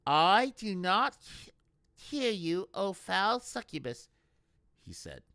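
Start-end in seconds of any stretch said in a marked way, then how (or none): 0.1-4.1 high, loud, slow, earnest denial; a frightened novice refusing temptation; pious refusal. A narrator's reading. Brutha declares to the unseen voice, high, loud and earnest.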